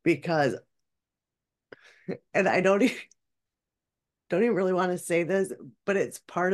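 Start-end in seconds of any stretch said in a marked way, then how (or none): 2.3-3.0 laughing through pain. Real, not acted. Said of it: "I'm laughing hysterically".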